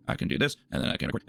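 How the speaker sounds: breathy whisper to the mic. Shown as a demonstration. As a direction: whisper it like a sample take. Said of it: "sound like this and record even more".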